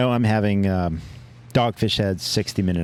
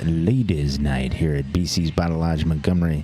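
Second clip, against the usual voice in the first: lower, booming club MC voice; deep announcer voice; 6 semitones lower than usual. Pretend. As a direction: announce it like a nightclub host.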